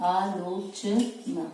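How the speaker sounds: आलोचना drawn out slowly and evenly; slow dictation. Shown as a demonstration. Teacher dictating आलोचना while writing it, slowly. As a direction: spell आलोचना out by sound, unhurried.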